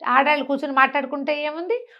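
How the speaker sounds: plain reading voice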